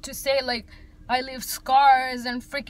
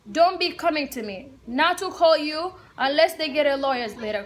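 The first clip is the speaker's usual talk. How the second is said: louder, insistent warning; retold indignant demand, voice raised; firm telling-off; 3 semitones higher, 4 dB louder than usual. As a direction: lay down the law, retelling it. Retells telling off aid worker.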